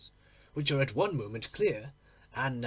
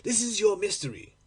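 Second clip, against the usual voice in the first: higher, louder bitter accusation; accusing; 5 semitones higher, 4 dB louder than usual. Acted. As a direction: throw it at her like proof. Jealous accusation continues.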